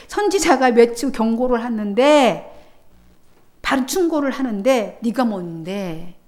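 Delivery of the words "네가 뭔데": scornful. Acted. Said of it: "이렇게 말하고 있는 거예요".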